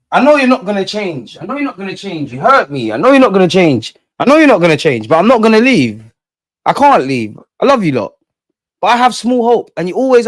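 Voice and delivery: mock hurt lover, emphatic and pleading. Fan to his football club in a toxic relationship, mock heartbroken. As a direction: plead like a wronged partner who won't leave. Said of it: "Football's a toxic relationship".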